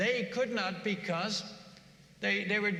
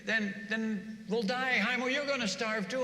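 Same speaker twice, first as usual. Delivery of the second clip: much higher, agitated protest; angry villagers; 4 semitones higher than usual. Retold or imitated. Villagers arguing with Haimo, higher mock anger. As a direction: scold Haimo as crazy, mock alarm. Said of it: "they're all getting angry at him".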